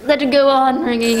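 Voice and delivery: drown out the phone with resolve; desperate insistence. Acted. Woman resolves to ignore phone.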